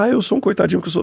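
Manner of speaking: high, hurried mock whine of self-pity. Mocking someone who dwells on their traumas, mock self-pitying. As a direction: play the poor little victim, pitched high.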